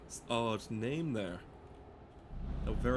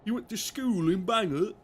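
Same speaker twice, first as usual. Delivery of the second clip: high, loud mock Bangor accent; put-on accent; 9 semitones higher, 6 dB louder than usual. Player quizzing a friend about Bangor, high loud mock accent. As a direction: ask it in an exaggerated local accent. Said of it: "Don't know why I'm doing that accent".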